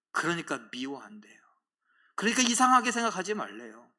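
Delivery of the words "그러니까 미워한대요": unvoiced hushed whisper. Preacher to congregation, whispering why the world hates them. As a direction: drop to a confiding whisper.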